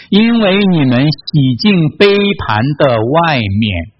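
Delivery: slow, deliberate verse reading; scripture reading. A narrator's reading. Preacher reading Jesus' rebuke of Pharisees, slow scripture reading. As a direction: read the verse out slowly, phrase by phrase. Reads a Bible verse aloud.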